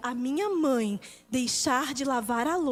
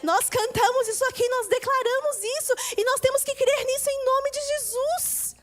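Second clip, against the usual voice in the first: preaching declaration. Acted. Preacher declaring blessing over families, fervently. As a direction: declare it with rising conviction.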